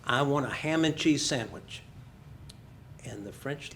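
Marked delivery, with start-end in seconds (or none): 0.1-1.8 a mildly raised voice, imitating a demanding tourist; rather loud order. Loud American tourist ordering a sandwich in a Paris cafe, a mildly raised voice. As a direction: say it firmly and a bit loud to the French counter lady. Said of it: "rather loudly".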